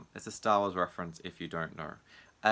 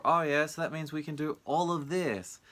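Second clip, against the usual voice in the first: mock pushy voice; 8 semitones higher than usual.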